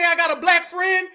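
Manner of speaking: loud scornful mock quote; mock shout. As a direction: shout it out like a ridiculous excuse. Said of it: "Did she just say".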